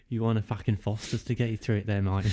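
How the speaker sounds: mock Aussie twang, quick; Australian accent. Stranger offering the drunk a Foster's, mock Australian accent. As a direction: rattle off a joke Australian accent. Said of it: "You ended up in Australia".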